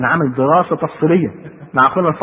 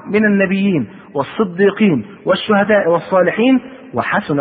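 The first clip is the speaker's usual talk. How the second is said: slow, measured sacred reading; formal quotation of holy scripture; scripture recitation; slower than usual. A narrator's reading. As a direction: recite the verse slowly, phrase by phrase.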